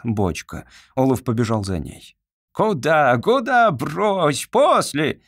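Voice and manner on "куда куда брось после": loud, high alarmed yell; shouting. A narrator's reading. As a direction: yell it to stop him. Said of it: "кричал".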